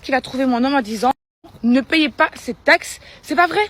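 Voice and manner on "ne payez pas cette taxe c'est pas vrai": loud, urgent warning. Retold or imitated. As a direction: warn them loudly, pressing. American woman warning them.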